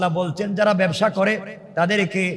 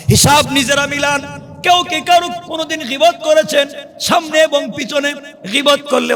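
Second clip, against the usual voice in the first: high, ringing sermon delivery; preacher in a high, urgent pitch; impassioned preaching; 9 semitones higher, 3 dB louder than usual. Real, not acted. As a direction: raise the voice and preach each phrase out. Preaches at full force.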